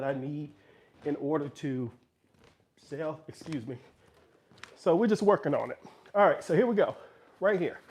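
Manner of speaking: breathless after the stairs; winded, catching breath. Real, not acted. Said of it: "Sorry, I'm out of breath".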